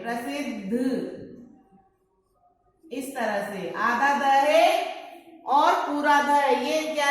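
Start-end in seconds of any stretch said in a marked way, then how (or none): 0.0-1.2 प्रसिद्ध slow, softer, with a doubled द्ध; slow careful word. Shown as a demonstration. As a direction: model प्रसिद्ध gently and clearly. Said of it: "इसको इस तरह से भी लिख सकते हैं".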